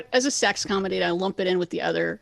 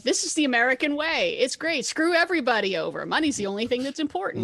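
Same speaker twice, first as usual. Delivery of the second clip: mock praising; 3 semitones higher than usual. Critic voicing the film's pro-money reading, mock praising. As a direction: play a gung-ho believer, tongue in cheek. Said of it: "a giant praising of".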